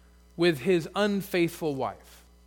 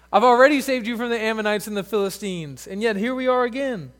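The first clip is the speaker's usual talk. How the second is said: exasperated God; 5 semitones higher, 5 dB louder than usual. Pretend. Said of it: "God's saying".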